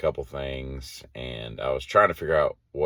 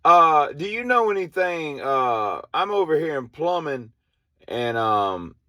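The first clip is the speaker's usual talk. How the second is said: high, louder call for help on the radio; radio request; 11 semitones higher, 6 dB louder than usual. Retold or imitated. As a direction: ask for help over the walkie-talkie. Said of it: "She's like".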